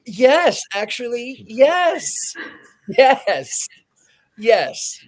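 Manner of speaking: loud, high insistent yes; emphatic yes. Acted. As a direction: answer him with a firm loud yes. Emphatic answer to mayor.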